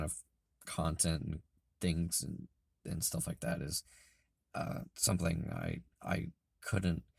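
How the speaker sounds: hoarse, breaking into whisper; losing voice. Real, not acted. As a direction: voice worn out and raspy. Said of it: "I'm sorry I'm losing my voice".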